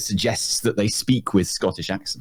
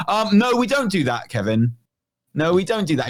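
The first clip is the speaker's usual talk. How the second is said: stern teacher; 5 semitones higher than usual. Retold or imitated. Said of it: "a teacher is like".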